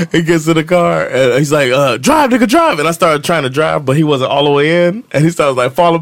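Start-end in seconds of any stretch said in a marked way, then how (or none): 2.0-2.8 high, urgent yell; acted panicked order. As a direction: imitate a frantic getaway shout, pitched way up. Acts out panicked getaway order.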